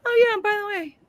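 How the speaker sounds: high, breezy offhand voice; a hammed-up nonchalant reveal; mock casual character. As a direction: toss it off like it's nothing. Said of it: "and they're like".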